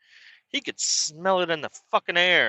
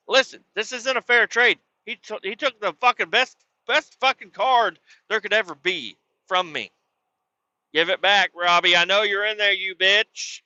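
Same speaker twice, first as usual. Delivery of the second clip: pleading yell; 7 semitones higher than usual. Retold or imitated. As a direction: yell up at the house. Yelling at the neighbor's house.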